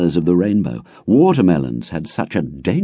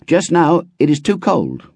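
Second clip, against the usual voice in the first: put-on higher boy's voice; a boy keen to share; eager boy; 10 semitones higher than usual. A narrator's reading. Runtu inviting his friend, higher eager boy. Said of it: "said Runtu another time".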